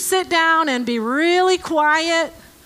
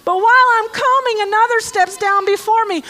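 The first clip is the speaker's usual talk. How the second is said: lightly put-on whiny complainer; a hint of a sick man's self-pity; whiny excuse voice; 4 semitones higher than usual. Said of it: "in that tone of voice".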